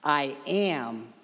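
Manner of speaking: a gentle, unhurried call home; tender invitation. Acted. Preacher voicing Jesus inviting listeners to come, slow and tender.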